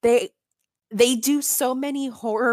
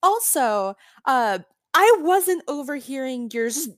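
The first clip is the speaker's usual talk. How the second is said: Hama; 2 semitones higher than usual. Retold or imitated. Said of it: "Hama ... is like".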